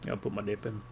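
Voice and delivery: put-on American South accent; fake Southern accent. Gamer getting back to business in a fake Southern accent. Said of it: "my very fake southern accent pops up".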